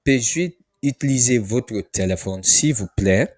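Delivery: careful teacher model of the request; polite French request. Shown as a demonstration. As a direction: model it clearly for students. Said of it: "This is how you ask them".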